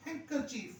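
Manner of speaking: हैंकरचीफ said smoothly, no d; correct pronunciation. Shown as a demonstration. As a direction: run हैंकरचीफ together, d dropped. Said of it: "हैंकर भी नहीं करना". (हैंकरचीफ जल्दी समेटकर)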